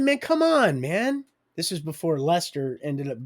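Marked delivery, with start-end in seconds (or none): 0.0-1.2 mock exasperation. Laughing at friend's tiny joint.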